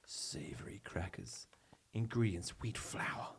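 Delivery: breathy sultry whisper; sexy voice. Pretend. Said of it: "reading the Jats in a sexy voice".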